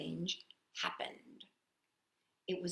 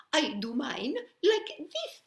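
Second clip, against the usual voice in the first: laughing pigeon; 6 semitones higher than usual. Acted. Pigeon shows how, laughing.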